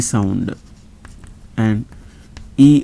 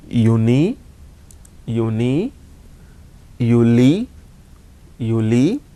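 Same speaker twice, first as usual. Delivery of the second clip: each month said twice with a rising end; slow repeat drill. Shown as a demonstration. Teacher leading the class in repeating the months. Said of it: "repeat you all with me".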